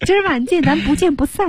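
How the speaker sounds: very high put-on holler; mock calling out. Acting out Rachel's date call, high mock holler. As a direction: call it over in a high, hammed-up voice. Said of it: "就是用喊的".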